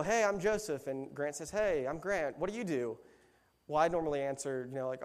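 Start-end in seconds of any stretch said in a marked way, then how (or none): 0.0-0.9 higher-pitched party greeting, lightly acted; imitating a chirpy hello; mock friendly introduction. 1.5-3.0 lightly acted small talk, pitched up; imitating polite party chat; mock friendly introduction. Plays the other guest introducing himself.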